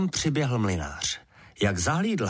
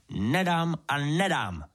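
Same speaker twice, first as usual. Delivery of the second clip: higher, slow, dug-in no; stubborn angry refusal; 6 semitones higher, slower than usual. A narrator's reading. Miller refusing to give his daughter to the sprite, angry. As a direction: drag out each refusal in rage. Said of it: "vztekal se mlynář".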